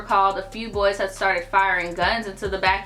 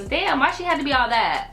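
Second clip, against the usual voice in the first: incredulous, raised-pitch scoff; exasperated mock; 5 semitones higher than usual. Real, not acted. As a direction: scoff at her overreaction. Mocking the girl's drama.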